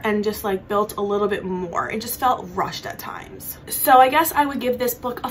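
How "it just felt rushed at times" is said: soft unvoiced whisper; whispered aside. Real, not acted. Reviewer admitting a flaw to viewers, whispered. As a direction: let it slip out as a quiet confession.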